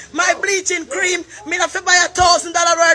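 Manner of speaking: loud, indignant telling-off; angry rant. Real, not acted. Woman berating someone over an insulting offer, angrily. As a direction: raise your voice in angry outrage.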